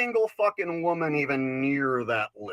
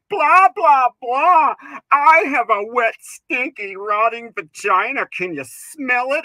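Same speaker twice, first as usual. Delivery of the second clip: very high, loud mocking singsong; mock female comic; 6 semitones higher, 9 dB louder than usual. Comic parodying a female comedian, shrill and loud. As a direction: shriek it in a mocking woman voice. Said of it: "the only joke they know how to tell is".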